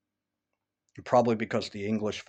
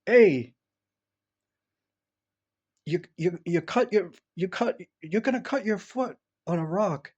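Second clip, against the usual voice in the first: grandfather's warning; 8 semitones higher than usual. Retold or imitated. Grandfather warning the kid running barefoot, high and raised. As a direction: call out a worried warning like an old Italian grandpa. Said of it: "he'd always say".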